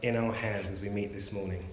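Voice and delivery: gentle, steady prayer voice. Acted. Preacher opening the service in prayer to God. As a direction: lead the congregation in prayer.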